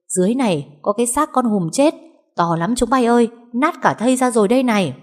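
high loud shout up from below the slope; calling up loudly. Acted. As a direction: call up from the ravine, quick and loud. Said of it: "vọng lên ầm ầm". (gọi vọng lên, to và nhanh)

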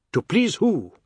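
high, loud cracking fury; losing control. Acted. Husband confronting his wife, voice losing control. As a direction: let the voice slip out of control. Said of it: "He was losing control of his voice".

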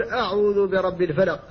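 أعوذ opened with a thin, unemphatic hamza; light hamza in أعوذ. Shown as a demonstration. Teacher tells students how to say it: light hamza in "أعوذ". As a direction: say "أعوذ" with a clear light glottal stop. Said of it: "قل".

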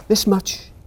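high, proud little voice; little hare boasting. Acted. Little hare stretching his arms wide, high proud voice. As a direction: show off how big your love is. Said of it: "said Little Nut Brown Hare".

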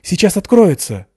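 high loud excited exclaim; excited cry. A narrator's reading. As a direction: call out in eager anticipation.

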